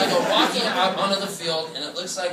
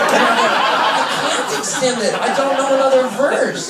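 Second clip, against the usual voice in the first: mock panic; 9 semitones higher, 6 dB louder, slower than usual. Panicked protest.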